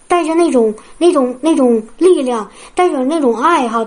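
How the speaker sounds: ordinary talk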